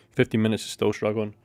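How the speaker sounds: talking while chewing gum. Real, not acted. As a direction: chew gum as you speak. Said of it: "Stop chewing".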